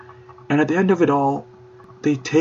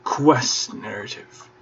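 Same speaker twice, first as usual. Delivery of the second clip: slow, softer, relishing quest narrative; savoring the words; 6 dB quieter, slower than usual. Shown as a demonstration. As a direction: linger lovingly on Quest narrative. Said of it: "what a lovely combination of words".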